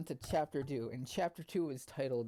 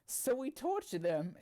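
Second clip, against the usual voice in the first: slow squeaky falsetto question; a mock-girly falsetto asking eagerly; girl voice; 11 semitones higher, 3 dB louder than usual. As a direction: ask it in a high, slow falsetto. The speaker's voice, high.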